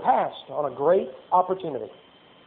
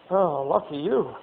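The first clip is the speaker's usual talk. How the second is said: a hint of a weary guard, rising to loud mocking Paul; exasperated Roman guard; 4 semitones higher, 5 dB louder than usual. Soldier griping to the next guard about Paul, mock exasperated. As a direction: sigh it off then ham up Paul's preaching.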